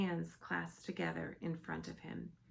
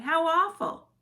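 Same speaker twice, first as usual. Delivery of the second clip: loud, much higher dismay; horrified cry; 11 semitones higher, 13 dB louder than usual. A narrator's reading. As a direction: Sophie appalled, crying out. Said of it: "Sophie cried".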